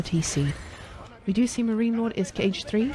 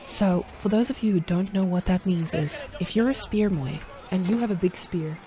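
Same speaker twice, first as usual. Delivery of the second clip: ASMR voice. Acted. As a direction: soothe the viewers while explaining the fight. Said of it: "let me just A S M R quickly".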